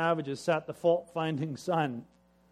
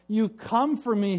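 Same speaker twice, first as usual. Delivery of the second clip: louder, higher cry of relief; joyful shout; 6 semitones higher, 5 dB louder than usual. Acted. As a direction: call out in glad surprise. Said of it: "he shouted".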